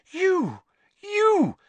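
high, loud accusing cry; accusing shout. A narrator's reading. Hermione cries out at Lupin, high and loud. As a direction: point and cry out at him.

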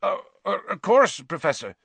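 high, faltering happy voice; weak with happiness. Acted. Hagrid answering the Professor, weak with happiness. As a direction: stammer it, overcome with relief. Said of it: "sounded weak with happiness".

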